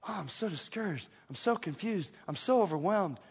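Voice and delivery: soft, put-on self-pity; mock discouraged whining. Preacher mimicking discouraged believers who skip reading, mock downcast. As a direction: mimic a defeated complainer, softly.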